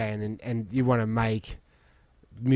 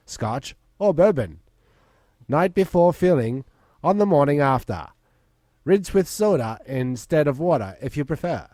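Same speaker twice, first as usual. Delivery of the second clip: put-on old timey announcer. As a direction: announce like a fifties radio ad. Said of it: "What's the, uh, old timey voice?".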